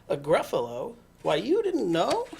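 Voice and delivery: mouse's mock surprise, lilting up at the end; feigned surprise. Mouse answers the fox, lightly feigning surprise. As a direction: act surprised he doesn't know.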